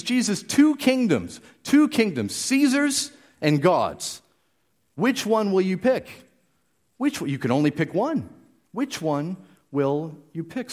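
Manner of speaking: corner him with the question; taunting challenge. Retold or imitated. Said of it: "They're essentially saying to Jesus".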